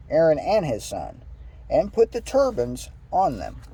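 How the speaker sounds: measured read-aloud voice; deliberate, lilting verse reading; scripture reading. Acted. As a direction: read the instructions out phrase by phrase. Reads scripture aloud to listeners.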